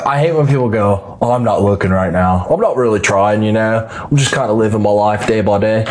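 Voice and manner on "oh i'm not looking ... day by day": put-on lightly done Australian accent on a quoted excuse; faint Australian twang, mocking. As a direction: mimic a laid-back Australian dude, only a touch. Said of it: "I did an Australian accent".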